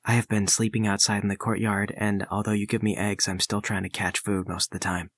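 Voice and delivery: low, unhurried complaint; lightly voiced low lizard man; deadpan lizard man. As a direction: answer the master in a low deadpan.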